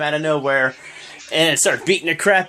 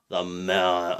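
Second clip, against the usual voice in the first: slow, low drawn-out ring announcer call; mock ring announcer; 9 semitones lower, 4 dB quieter, much slower than usual. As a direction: boom out the entrance like an arena announcer. Announcing wrestler entrance.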